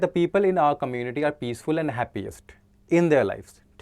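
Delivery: slow dictation of the question; slow question read. Shown as a demonstration. Teacher reading the next question aloud, slowly. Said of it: "second क्या है".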